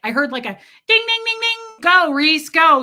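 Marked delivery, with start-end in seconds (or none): 0.9-1.8 high, loud ding ding; imitated bell. Imitating the bell in her head, high and bright. 1.8-2.8 loud, high cheer. Retold or imitated. Her inner voice cheering herself on, loud.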